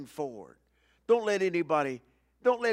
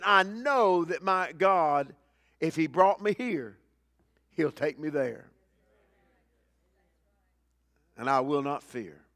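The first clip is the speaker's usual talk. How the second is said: resolute believer's vow. Retold or imitated. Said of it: "I'm gonna keep walking saying".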